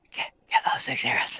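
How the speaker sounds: whispering, hushed voice. Repeating an instruction to fellow players: whispering. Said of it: "Why are you whispering?".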